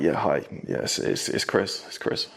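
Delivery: hushed, furtive phone whisper. Acted. Teen phoning a girl in front of family, whispering. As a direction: whisper so the family won't hear. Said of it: "Why are you whispering?".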